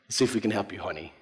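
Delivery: low, soft, sympathetic agent; pitying agent. Retold or imitated. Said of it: "They feel sorry for me".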